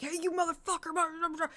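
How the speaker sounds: mock tough confrontation. Imagined confrontation.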